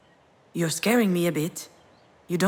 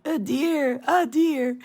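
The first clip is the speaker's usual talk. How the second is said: imitating child; 5 semitones higher, slower than usual. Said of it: "you kept repeating".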